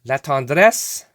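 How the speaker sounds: tongue-in-cheek French pronunciation of La Tendresse; mock French. Shown as a demonstration. Collector reading a player name aloud, mock French. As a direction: say La Tendresse the French way, a bit hammed. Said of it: "I'm gonna French it".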